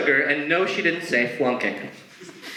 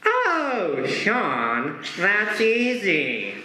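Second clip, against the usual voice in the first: relieved teacher; 4 semitones higher, much slower than usual. Retold or imitated. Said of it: "she's addressing him".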